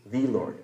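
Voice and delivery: "the" said as a full, distinct word before "Lord"; stress on "the". Shown as a demonstration. Teacher showing a congregation how to emphasize one word, stress on "the". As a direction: lean on "the" in "the Lord". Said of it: "You emphasize one word".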